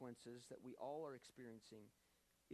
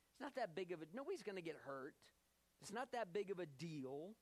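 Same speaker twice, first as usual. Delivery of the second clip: lightly voiced tempter; 3 semitones higher than usual. Enemy of souls telling Eve she won't die, lightly acted coaxing. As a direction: coax them lightly, as if sin were harmless. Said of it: "the enemy of our souls wants us to believe".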